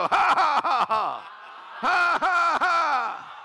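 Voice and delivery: loud, high mock laughs; pulsed ha sounds. Shown as a demonstration. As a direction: laugh in sharp bursts. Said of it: "you just go".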